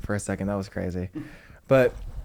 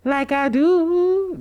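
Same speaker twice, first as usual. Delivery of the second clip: sassy put-on voice; 4 dB louder, much slower than usual. Repeats pose in hood.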